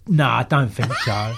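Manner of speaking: laughing dismissal. Retold or imitated. Gandhi's dismissive reply, laughing.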